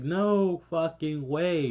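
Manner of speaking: slow, drawn-out no way; emphatic disbelief. Real, not acted. Reviewer refusing to accept Jon's fate, slow and drawn out. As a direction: drag each word out in disbelief.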